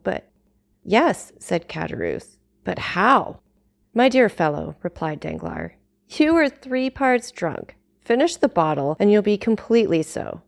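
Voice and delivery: measured storytelling read with character voices; audiobook narration. A narrator's reading. Vlogger reading Dumas chapter to her audience, steady narration. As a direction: read the classic chapter aloud to listeners. Reads novel aloud.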